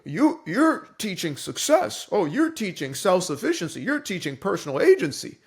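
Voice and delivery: put-on sneering voice of the critics, slowed at the end; a hammed-up voice of the critics; mocking critics. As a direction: parody the people who accuse him. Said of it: "what they're saying is".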